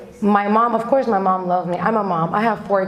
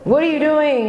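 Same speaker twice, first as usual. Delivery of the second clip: retold mom's scream; 7 semitones higher than usual. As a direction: imitate a mom freaking out, pitched up. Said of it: "I started screaming, yelling".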